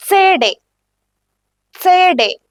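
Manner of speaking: സേഡേ said in German, like "tsay-day"; German demo. Shown as a demonstration. Teacher models സേഡേ to learners in German. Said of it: "സേഡേ meaning C D".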